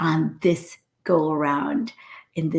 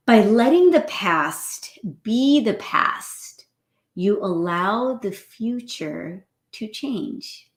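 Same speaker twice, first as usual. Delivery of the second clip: slow, measured reading, rising high on the opening; emphatic message reading; 3 semitones higher, slower than usual. Real, not acted. Host reads the day's message to listeners, slow and emphatic. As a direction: read it out deliberately, stretching the words.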